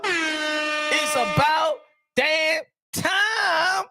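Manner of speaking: slow, stretched, half-crying cheer; hammed-up tearful celebration; mock crying joy. Real, not acted. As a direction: wail it like happy tears. Repeats louder, mock crying.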